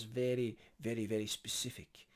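a botched attempt at a BBC newsreader's English accent; terrible BBC accent. Shown as a demonstration. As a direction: lightly put on a BBC presenter accent, badly. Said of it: "forget that accent, that was terrible".

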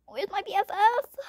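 hushed whisper with a questioning rise. Acted. Kid whispering.

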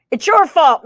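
lightly voiced blaming rabbit; meowing accusation. A narrator's reading. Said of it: "meowed the rab".

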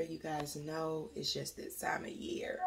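unvoiced aside to the viewers; whisper. Real, not acted. Mom confiding to viewers, whispered. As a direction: drop to a breathy whisper. Aside about being sick.

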